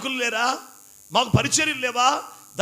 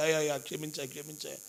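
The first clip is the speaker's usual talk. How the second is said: softer, imitating a weeping plea; a touch of sobbing begging; mock tearful plea; 7 semitones lower, 11 dB quieter, faster than usual. Preacher imitating a servant crying to God for forgiveness, softly tearful. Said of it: "ఏడుస్తానయ్యా".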